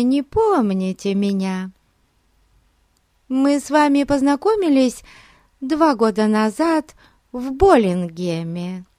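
high, mincing society lady; simpering and gushing, all put-on; affected voice. A narrator's reading. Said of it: "каким-то жеманным голосом".

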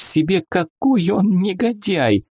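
high, slow tearful whimper; high and slow, through tears; sobbing. A narrator's reading. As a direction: sob it out like a wounded girl. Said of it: "всхлипывала она".

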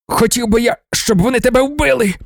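dragged-off envoy rages at the emperor; raging. A narrator's reading. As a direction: spit the wish out in a fury. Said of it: "лютував Нунепі".

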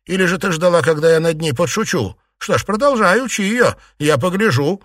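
mock her with cold anger; young lady sneering at the old aunt; angry sarcasm. A narrator's reading. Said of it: "зло усмехнулась".

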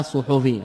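صحفي as ṣuḥufī, slow; صحفي بضمتين; two-damma form. Shown as a demonstration. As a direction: read صحفي with ḍamma on ṣu and ḥu. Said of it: "بضمتين".

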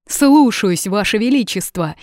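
loud, high soldier's bark of delight; joyful bark. A narrator's reading. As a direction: bark it out gladly, glad to obey. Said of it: "радостно гаркнул сержант".

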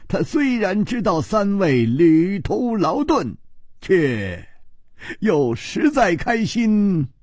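cheerful go-between, lightly acted; smiling, jovial matchmaker. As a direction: deliver good news with a grin, stretching the last phrases. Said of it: "吴青天笑着说".

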